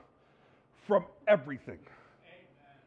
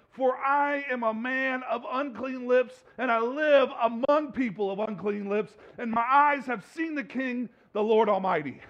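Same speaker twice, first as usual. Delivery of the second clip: solemn scripture reading. Acted. Reading Isaiah's confession.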